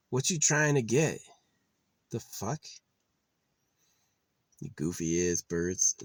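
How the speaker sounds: calling out at birds. Real, not acted. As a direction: yell across at the squabbling birds. Yelling at birds outside.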